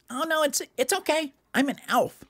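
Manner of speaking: reassuring little elf, high-pitched; high cartoon elf; Gerald. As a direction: soothe them in a tiny high voice.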